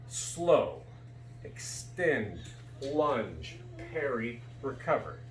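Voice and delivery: slow fencing commands. Shown as a demonstration. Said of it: "I'm slowing this down".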